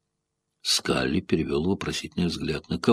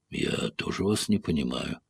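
impassive; 3 semitones lower, 9 dB quieter than usual. A narrator's reading. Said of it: "последовал бесстрастный ответ".

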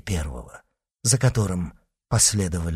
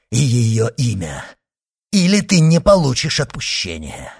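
raised, forceful threat; threatening demand; 3 semitones higher, 5 dB louder than usual. Acted. Monk threatens to refuse absolution, insistent. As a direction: press hard, rising louder.

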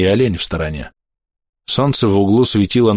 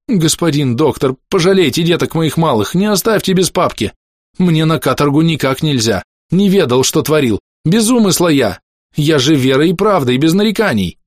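high-pitched, desperate pleading; мольба о пощаде; 7 semitones higher than usual. A narrator's reading. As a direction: beg for mercy. Orderly begs for mercy. (умоляюще, высоким жалобным голосом)

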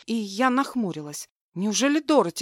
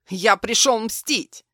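медленно и громко, с угрозой; чеканить месть; злобная угроза; 5 dB louder, slower than usual. Acted. Злодей объявляет месть. (медленная громкая угроза)

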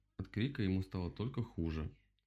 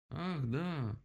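raised, drawn-out realization; remembering; 7 semitones higher than usual. A narrator's reading. Owl remembers her crash, sudden recollection. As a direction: let it dawn on you. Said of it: "вспомнила сова".

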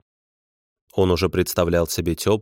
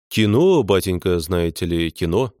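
feigned boredom. Acted. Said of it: "ответил он с напускной скукой".

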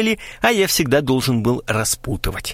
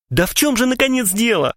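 higher, strained mock wail; wailing cry; 11 semitones higher than usual. A narrator's reading. Pale Krasilnikov demands answers, mock wail. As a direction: cry out in despair. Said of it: "завопил Красильников".

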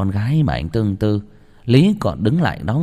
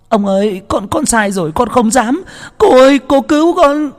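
much higher, louder, wailing for mercy; crying plea; 6 dB louder than usual. A narrator's reading. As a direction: sob and beg the master and mistress. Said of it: "miệng khóc lóc". (vừa khóc vừa van xin, the thé)

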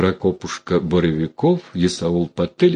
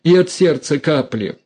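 a hint of cranky old mother; 7 semitones higher, 3 dB louder than usual. A narrator's reading. Mother snapping at daughter.

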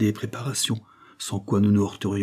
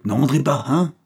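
mild call; 6 semitones higher, 4 dB louder than usual. Acted. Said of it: "s'écria monsieur".

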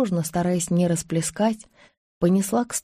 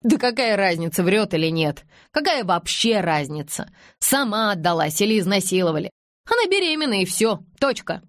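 firm, measured insistence on "разница" and "точка"; each word hammered. A narrator's reading. Silva shuts down Anush, hammering out "точка". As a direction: land "точка" as a final full stop. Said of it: "отчеканивая каждое слово".

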